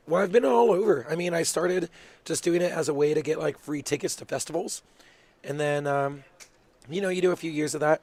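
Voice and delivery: talking through burning spicy food; mouth full of hot food. Real, not acted. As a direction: speak around a hot mouthful. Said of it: "Ooh, my mouth is on fire".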